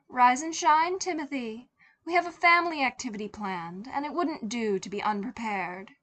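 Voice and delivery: bright, high, brisk mother rousing her son; sweetly commanding wake-up call; mother's voice. Acted. Mother waking Timothy for a family outing, high and brisk.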